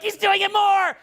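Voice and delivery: very high hysterical mock squeal; imitating laughing onlookers. Entrepreneur telling the group about him, mock hysterics. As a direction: squeal it as if cracking up. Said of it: "group would be laughing uncontrollably".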